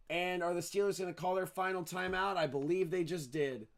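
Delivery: live football call, lifting as the clock runs; play-by-play. Real, not acted. Announcer tracks the final seconds and timeout, live play-by-play. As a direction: narrate the play as it happens.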